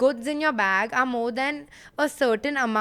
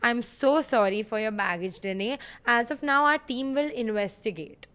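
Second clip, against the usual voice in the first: scripted staff. Retold or imitated. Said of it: "they all have a script".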